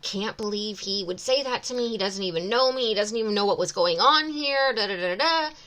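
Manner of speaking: mock complaining to her husband, sped up a touch; replaying her own petty grumble about the stranger; indignant complaining. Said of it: "I started complaining".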